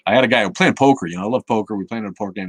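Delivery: ordinary talk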